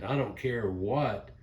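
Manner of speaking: lightly voiced grandmother, slow and emphatic; slow it down, imitating a grandma's insistence; quoted grandmama. Quoting what her grandmama told her, slow mock insistence. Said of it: "her grandmama told her something one time".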